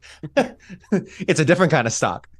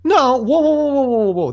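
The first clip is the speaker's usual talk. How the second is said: shocked; 12 semitones higher, 5 dB louder than usual. Real, not acted. Shocked by Bears claim.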